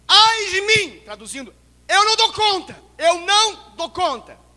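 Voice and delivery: high, loud "Eu não dou conta"; anguished cry. Acted. Preacher voicing Isaiah overwhelmed. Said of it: "fala assim".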